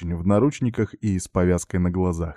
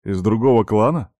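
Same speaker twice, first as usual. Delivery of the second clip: surprised; 4 dB louder than usual. Acted. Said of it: "удивлённо переспросил парень".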